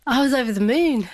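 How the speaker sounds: high, laughing delight; bubbling over with happiness; laughing with joy. Real, not acted. Telling the host how she felt, laughing and high. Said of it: "So how did you feel?".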